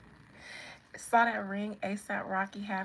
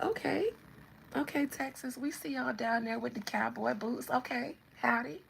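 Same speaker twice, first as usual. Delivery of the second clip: lightly acted, higher friendly greeting; friendly acknowledgement; 4 semitones higher than usual. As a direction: give an easygoing mock shout-out. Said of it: "Everybody else just be like".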